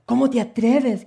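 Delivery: high, loud outraged cry; outraged shout. Acted. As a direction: shout it, deeply offended. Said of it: "gritó la novia".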